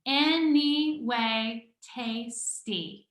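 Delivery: slow, every syllable spaced out as if counted on fingers; syllable-by-syllable reading. Shown as a demonstration. Teacher reading the broccoli haiku aloud with the class, slow and syllable by syllable. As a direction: read the haiku slowly, tapping out each syllable. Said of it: "but read it with me".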